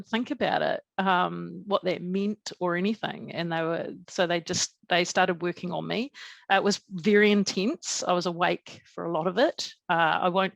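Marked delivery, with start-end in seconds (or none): none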